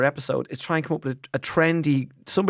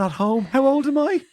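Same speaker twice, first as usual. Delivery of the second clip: Gay Byrne broadcaster voice; 11 semitones higher than usual. Shown as a demonstration. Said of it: "I thought it was Gay Byrne there".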